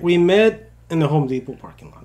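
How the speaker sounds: put-on loud reading in an Indian accent. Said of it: "I don't know why I sound Indian".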